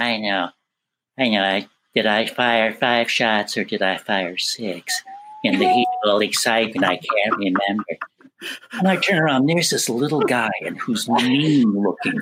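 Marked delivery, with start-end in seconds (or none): 0.0-7.8 low, sneaky, weasel-like voice. Retelling a voice he heard behind him: weaselly voice. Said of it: "I hear this weaselly voice behind me".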